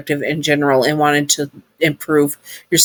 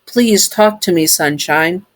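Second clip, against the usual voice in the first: robot voice; 3 semitones higher than usual. Acted. Sun robot voiced in story.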